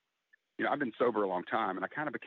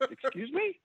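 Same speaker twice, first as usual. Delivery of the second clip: retold "Excuse me?" leaping way up; mock surprise; slower than usual. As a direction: act stunned by Mom's remark. Shocked reply to mother.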